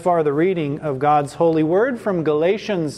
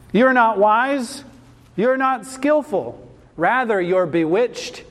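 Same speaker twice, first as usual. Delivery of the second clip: slow, deliberate YOU'RE NOT WISE, raised pitch; emphatic rebuke; 3 semitones higher than usual. Acted. Apostle telling the Galatians they are bewitched, emphatic. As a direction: drive each short charge home. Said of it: "This is a very emphatic statement".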